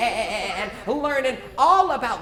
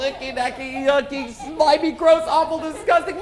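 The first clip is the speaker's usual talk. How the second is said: louder mock disgust, rising; playful disgust; grossed out; 3 semitones higher, 5 dB louder than usual. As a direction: pile on the yuck. Disgust at worm again.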